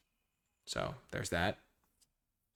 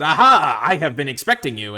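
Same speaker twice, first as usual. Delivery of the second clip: loud, higher, gloating troll; 4 semitones higher, 13 dB louder than usual. Acted. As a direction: sneer it like a waiting villain. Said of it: "the troll said".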